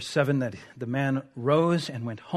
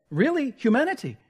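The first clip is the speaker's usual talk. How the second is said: incredulous; 7 semitones higher than usual. Real, not acted. Incredulous rhetorical retort.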